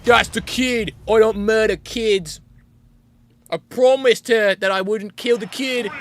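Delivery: loud, high, slow mock protest; hammed-up character voice, heavy and drawn out; imitated character. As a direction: put on an indignant, overdramatic refusal. Imitating character's angry refusal.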